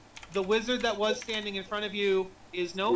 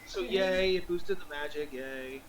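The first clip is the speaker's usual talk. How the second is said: unenthusiastic yay; 6 semitones lower than usual. Acted. Wizard whose plan failed, hollow cheer. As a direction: celebrate with no joy at all.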